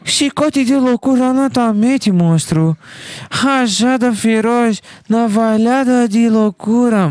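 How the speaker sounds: high, slow dramatic move names; anime attack callout. Pretend. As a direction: yell attacks like an anime hero. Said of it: "Chicote voraz".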